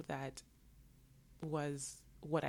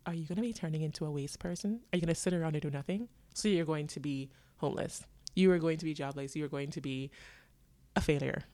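a louder, scolding parental rant, quick at first; lecturing parents; 4 dB louder than usual. Retold or imitated. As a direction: lay into her like a worried parent, building in volume. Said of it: "my parents were looking at me like".

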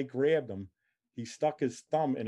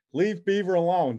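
mild imitated yell, higher and louder; retold yell; 5 semitones higher, 5 dB louder than usual. Girls yelling in the other room, retold as a mild yell. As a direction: call it out as a retold protest. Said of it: "these girls are yelling".

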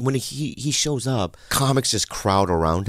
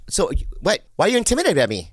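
higher-pitched retold challenge; imitated Rogan; 9 semitones higher, faster than usual. Rogan asking why he is intimidated, higher imitated voice. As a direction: question him in a pitched-up impression.

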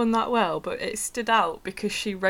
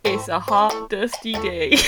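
put-on Southern American accent. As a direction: read it with a Southern lilt. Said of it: "read it in a Southern".

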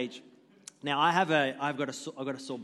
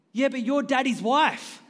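put-on high, louder little-kid voice with a laugh; child's retort; 9 semitones higher, 6 dB louder than usual. Four-year-old telling her mum she's daddy's wife, high kid voice. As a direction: play the innocent kid landing the zinger. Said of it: "my four-year-old goes".

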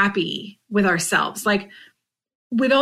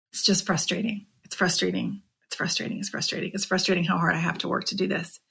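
repeated words fading down to a whisper; fading frustration; 7 dB quieter, faster than usual. Real, not acted. Vlogger admits frustration, fading to a whisper. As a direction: let it trail off into a whisper.

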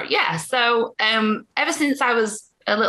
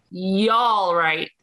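Yorkshire greeting; much slower than usual. Shown as a demonstration. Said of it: "But you just say".

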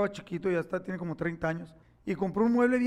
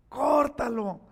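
tempting córtalo lifted higher; bad little angel, pushed higher; 5 semitones higher, much slower than usual. Boy voicing the bad angel urging him, córtalo higher. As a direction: egg him on, córtalo pitched up. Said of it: "un angelito malo que me decía".

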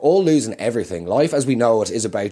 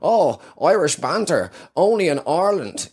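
mocking banter cliché; 4 semitones higher than usual. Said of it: "I don't buy into that whole".

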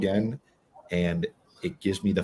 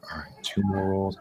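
whisper; 5 dB quieter than usual. Retold or imitated. Quoting himself giving in.

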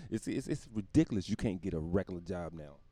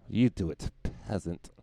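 king to peasant; slower than usual. Acted. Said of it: "I am a king".

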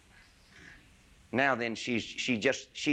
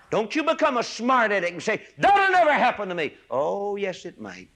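higher and louder, pressing; warning preaching shout; 9 semitones higher, 5 dB louder than usual. Real, not acted. Preacher warning young listeners not to be smug, loud. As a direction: hammer the warning home.

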